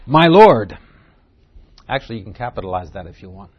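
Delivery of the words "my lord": a loud call of My Lord; loud cry. Acted. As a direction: cry it out loudly. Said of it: "He cried loudly".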